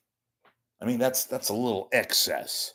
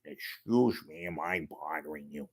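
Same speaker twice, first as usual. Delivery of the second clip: Peter Falk; 4 semitones lower, 9 dB quieter than usual. Retold or imitated. Host doing a light Peter Falk bit for the chat. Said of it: "I'll do my Peter Falk impression".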